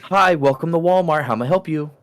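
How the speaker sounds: cheerful retail greeter voice; customer service voice. Shown as a demonstration. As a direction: greet a shopper brightly. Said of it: "I wanna hear everybody's customer service voice".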